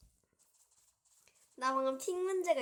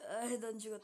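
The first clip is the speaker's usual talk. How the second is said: mock crying. Mock wail after getting killed.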